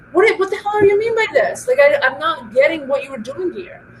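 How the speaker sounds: imitating an irritated boss, pitched high on the first words; mock exasperation, then settle down; a boss losing patience in a meeting, imitated; frustrated boss. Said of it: "He was frustrated".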